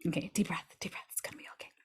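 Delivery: hushed, nearly whispered comfort; soft reassurance. Real, not acted. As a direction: drop right down and soothe the listener. Calming listeners after a heavy forecast.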